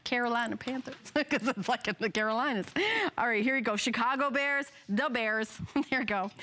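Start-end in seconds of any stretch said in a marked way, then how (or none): 0.0-2.7 Carolina accent. Shown as a demonstration. Host playfully announcing a team, in a light Carolina accent. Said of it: "with a little bit of an accent". 4.9-5.6 light mock Chicago accent. Shown as a demonstration. Host naming the local team, in a playful Chicago accent. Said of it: "do the accent for each team".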